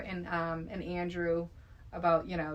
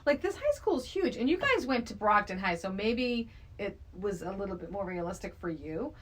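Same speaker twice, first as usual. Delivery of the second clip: exasperated disbelief; 4 semitones higher than usual. Retold or imitated. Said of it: "I'm like".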